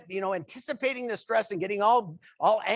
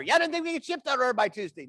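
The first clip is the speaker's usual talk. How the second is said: quick, mildly raised phone-talker voice; imitating loud phone talker; 3 semitones higher, faster than usual. Phone talker walking towards him, getting louder. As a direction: rattle it off like an oblivious caller. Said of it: "He's getting incrementally Doppler radar louder".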